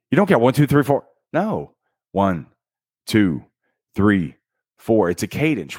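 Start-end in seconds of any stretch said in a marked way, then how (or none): none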